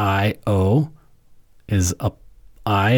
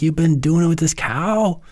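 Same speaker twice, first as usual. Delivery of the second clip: higher, indignant mock outrage; wife confronting Zeus about the cow, higher mock indignation; mock angry Hera; 8 semitones higher than usual. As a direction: play a jealous wife catching him out, but lightly. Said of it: "and she's pissed".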